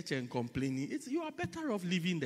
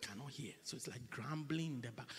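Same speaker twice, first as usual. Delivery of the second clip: hushed whisper, like grumbling at the back; 4 semitones lower, 10 dB quieter than usual. Shown as a demonstration. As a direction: whisper it so nobody hears. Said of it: "So that the person they are complaining against cannot hear".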